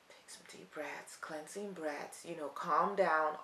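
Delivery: soft, slow, hushed calming voice; soothing. Acted. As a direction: talk someone upset down, slowly and very softly. Soothing an upset person, acted out.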